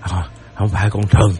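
stammering fear. A narrator's reading. Old man shaken with fear.

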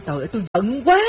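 ordinary delivery

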